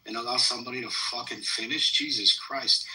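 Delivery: angry outburst. Real, not acted. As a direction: cut them off, fed up. Snaps at those interrupting him.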